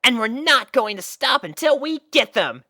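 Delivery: high, loud vow; determined exclamation. Acted. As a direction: declare it proudly. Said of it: "exclaimed Scootaloo".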